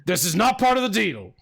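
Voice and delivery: mildly affronted protest; a touch of baffled indignation; taken aback. Acted. Game master voices a startled foe, taken aback.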